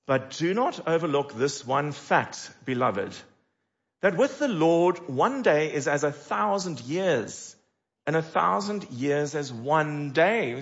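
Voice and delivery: slow, measured Bible reading; solemn reading of the passage; scripture reading. Acted. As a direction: read each phrase with weight. Reads scripture aloud.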